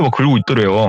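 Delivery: usual speaking voice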